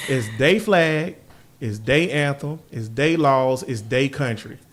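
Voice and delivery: slow, leaning on they every time; stress on they. Real, not acted. Host lists whose flag and country it is, stressing they. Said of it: "listing, stressing they".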